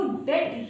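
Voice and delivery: डेट said with no b sound at all; correct, b silent. Shown as a demonstration. Teacher showing students the right डेट, b silent. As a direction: say डेट clean, dropping the b. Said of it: "जो सही pronunciation है".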